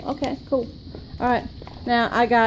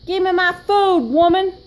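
mock demanding; 3 semitones higher than usual. Impatient customer demands food.

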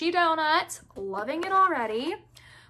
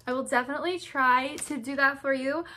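odd sing-song. Real, not acted. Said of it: "Why did I say it like that?".

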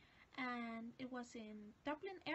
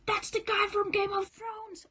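excited realization; 8 semitones higher, 14 dB louder than usual. Retold or imitated. Sudden recognition at airport.

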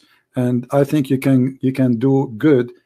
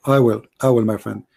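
losing voice. Real, not acted. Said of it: "really I'm losing my voice".

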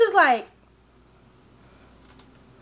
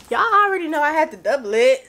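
laughing; 4 semitones higher, 4 dB louder, faster than usual. Real, not acted. Giggling while confessing.

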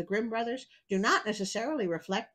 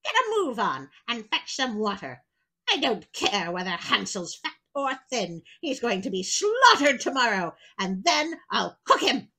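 louder, impatient witch orders; 5 dB louder than usual. Acted. Witch threatening to slaughter Hansel, louder impatient orders. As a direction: hurry her along, threatening.

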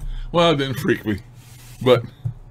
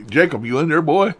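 put-on teasing call, rising louder and higher on boy; calling into the mailbox; 4 semitones higher, 4 dB louder than usual. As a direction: call out to the ghost like a pal. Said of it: "I say".

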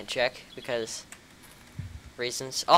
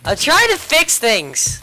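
high put-on voice; 11 semitones higher, 5 dB louder, slower than usual. Replies in high voice.

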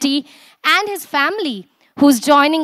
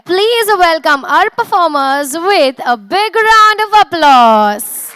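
louder, stretched "applause"; announcer call; 2 semitones higher, 4 dB louder than usual. Acted. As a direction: build it up for the applause. Host calling for applause.

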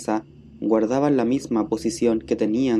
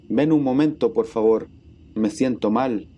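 pleading. Acted. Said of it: "le suplicaron".

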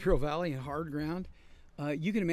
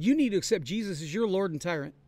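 pushy campus preacher voice, louder; a preachy zealot lecturing the sinner, mock stern; mock religious zealot; 4 dB louder than usual. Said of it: "he talked like this".

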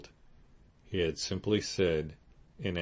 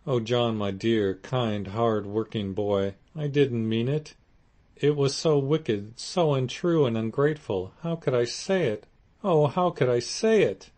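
high, loud, tearful pleading; tearful repentance; 6 semitones higher, 7 dB louder than usual. A narrator's reading. Wife begging her husband's forgiveness, crying and rising. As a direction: sob out the apology, building in pitch. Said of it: "crying with repenitent tears".

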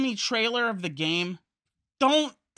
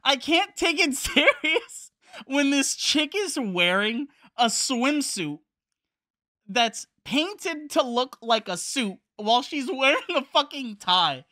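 laughing; 4 semitones higher, 3 dB louder than usual. Real, not acted. Laughing at the costume.

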